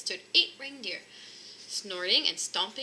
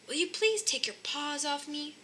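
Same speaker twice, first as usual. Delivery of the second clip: shouted; 6 semitones higher than usual. Acted. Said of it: "shouted Grandpa Forgetful".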